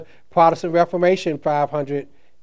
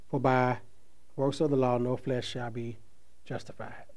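scripture reading. Acted. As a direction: read the verse out solemnly, letting it fade. Reads scripture aloud.

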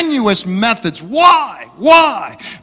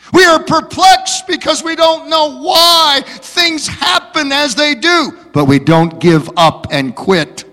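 preaching; 3 semitones higher than usual. Acted. Preacher quoting Paul.

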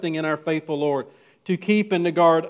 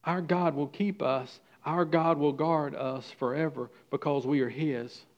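soft assurance; 4 dB quieter than usual. Acted. Quiet confession of trust.

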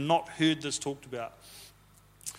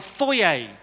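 imitating Dan's accent. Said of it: "He says things like".

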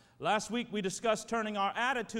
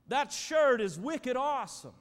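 Boston slang quote; 3 semitones higher, 4 dB louder than usual. Retold or imitated. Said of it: "They'll say things like".

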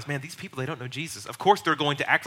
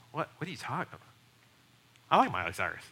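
much softer, puzzled mumble; taken aback; 6 dB quieter, faster than usual. Retold or imitated. Unbeliever answering a judgmental Christian, taken aback.

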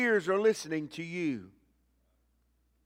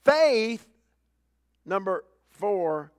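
pulpit call; 3 semitones higher, 6 dB louder, much slower than usual. Acted. Announcing the next point.

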